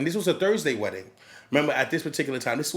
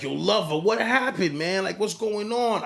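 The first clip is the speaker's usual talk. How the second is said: higher-pitched retold bewilderment; desconcierto imitado; 6 semitones higher than usual. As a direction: ask it as a baffled wedding guest, pitched up. Bridesmaid or groomsman confronts late DJ.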